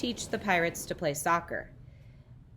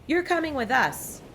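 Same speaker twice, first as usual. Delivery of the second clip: high pirate order; 7 semitones higher than usual. A narrator's reading. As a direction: tell him like a captain. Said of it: "Braid Beard told me".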